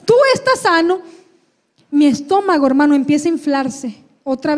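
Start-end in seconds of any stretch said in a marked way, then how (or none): 0.0-1.0 high-pitched declaring prayer; oración declarativa. Retold or imitated. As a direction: speak healing firmly over your child. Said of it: "oro por mi hijo". (orando con firmeza y voz aguda)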